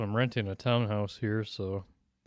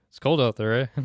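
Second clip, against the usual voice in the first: louder, teasing Canadian eh; mock Canadian accent; 6 dB louder than usual. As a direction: playfully imitate a Canadian tacking on eh. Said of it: "kinda cringy to say, "Eh".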